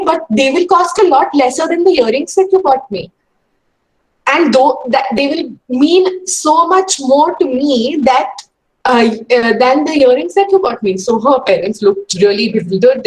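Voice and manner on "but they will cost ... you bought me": a lightly voiced pleading child; mild child insisting. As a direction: make the case like a determined ten-year-old. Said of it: "And she said".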